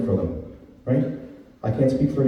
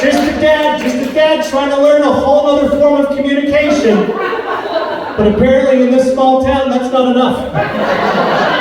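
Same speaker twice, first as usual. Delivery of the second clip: mock self-pity; 9 semitones higher than usual. Comedian mock-pitiful self-pity bit.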